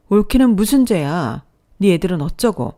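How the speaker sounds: angry scolding. Acted. Sister scolds brother.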